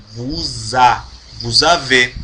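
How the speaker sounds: vous avez said as one word, S as Z; linked liaison. Shown as a demonstration. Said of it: "Faz o som de Z junto com o verbo". (vous avez como uma palavra só, com Z)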